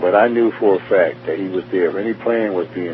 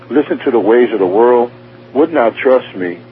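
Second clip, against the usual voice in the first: higher and louder, slowing on would not trust me; emphatic retold rebuke; 5 semitones higher, 6 dB louder than usual. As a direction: press each phrase like a grieved rebuke. Retells God's grieved rebuke.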